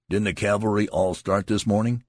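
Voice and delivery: loud, high challenging question. A narrator's reading. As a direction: demand it, glaring around. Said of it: "He glared about him".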